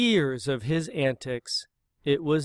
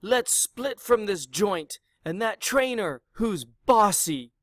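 mild shout; 5 semitones higher than usual. Acted. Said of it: "shouted Pig to his posse".

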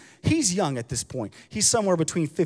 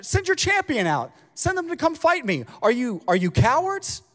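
a giant jeering across the valley; taunting giant Goliath; 7 semitones higher than usual. Retold or imitated. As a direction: sneer it out like a bragging champion. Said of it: "He's saying".

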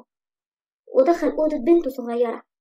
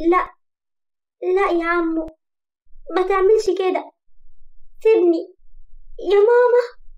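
صراخ في الحلم; 6 semitones higher than usual. A narrator's reading. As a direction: plead in a nightmare, rising to a shout for mama. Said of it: "كانت بتصرخ جدًا". (استغاثة طفلة مرعوبة بتصرخ وهي بتحلم)

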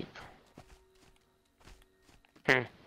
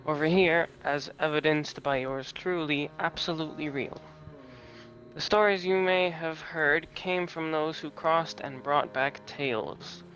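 wise crow voice. Acted. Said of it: "voice acting time".

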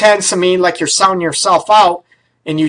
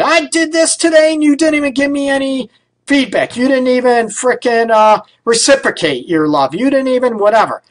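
higher, whiny complaint from a hurt partner; frustrated partner complaining; 6 semitones higher than usual. Retold or imitated. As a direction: mimic a partner venting how unappreciated they feel. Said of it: "when you go to get frustrated".

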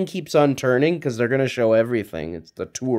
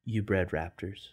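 much softer, shaken question; stunned disbelief; 6 semitones lower, 12 dB quieter than usual. Retold or imitated. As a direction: barely get the words out in shock. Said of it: "Doctor Grant looks at Hammond and says".

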